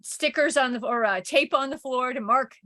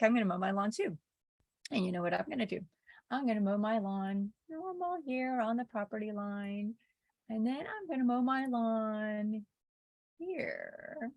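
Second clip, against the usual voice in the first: sly husband; 2 semitones lower, 8 dB quieter than usual. Retold or imitated. Husband's scheming plan voiced.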